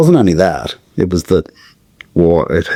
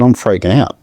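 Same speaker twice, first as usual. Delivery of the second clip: freaking out; 5 semitones higher than usual. Retold or imitated. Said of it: "I said".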